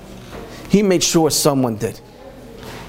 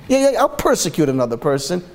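quick, glib, offhand yes to betrayal; breezy mock agreement; mock casual volunteer; faster than usual. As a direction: rattle it off like it's nothing. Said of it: "What type of person would say".

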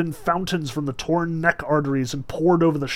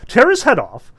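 delighted shout; 6 semitones higher, 9 dB louder than usual. A narrator's reading. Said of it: "he shouted to the cat".

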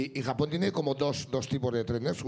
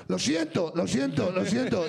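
lightly put-on, slightly raised apology voice; loud apologetic tourist; 2 semitones higher, slower than usual. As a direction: repeat it like an insistent, mock-sorry foreigner. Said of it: "y con esta voz".

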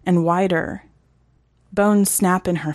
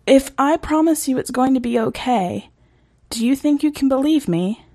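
higher, gentle reassurance; soothing girl; 7 semitones higher than usual. Acted. Reagan reassuring frightened Eric, gently and higher.

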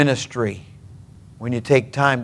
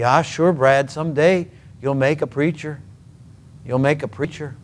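lightly imitated Norwegian accent; a grandfather's Norwegian accent, lightly done. Grandfather encourages his grandson, hand on shoulder, light Norwegian accent. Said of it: "Norwegian accent, he'd say".

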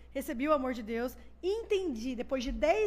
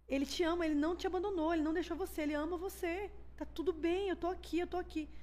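insistent comfort in a slightly raised pitch; pleading reassurance; 3 semitones higher than usual. Retold or imitated. Husband telling his wife he is here, pleading reassurance. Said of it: "começa a chorar, assim, sem parar".

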